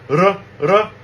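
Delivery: R said twice as a Korean flap. Shown as a demonstration. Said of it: "really difficult for American speakers".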